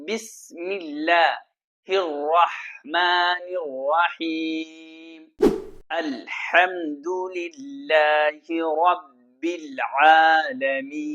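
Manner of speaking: slow, measured tajweed recitation; slow melodic Quran chant. Shown as a demonstration. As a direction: recite it slowly like a qari. Recites verses.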